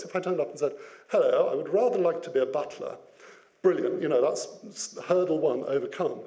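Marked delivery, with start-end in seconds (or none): 1.1-3.0 posh butler voice. Pretend. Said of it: "a butler has a very particular tone of voice".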